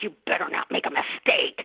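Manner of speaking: hushed, breathy warning from a strict boss; tense warning. Retold or imitated. Actor recalling a tense set, hushed mock warning. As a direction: warn them under your breath not to slip up. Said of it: "walking on eggshells a little bit".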